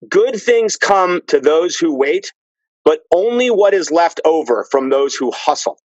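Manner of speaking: slow, measured quotation; deliberate correct quote. Shown as a demonstration. Setting the Lincoln quote straight, slow deliberate recital. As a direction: lay the true quote out slowly. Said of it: "it's actually this".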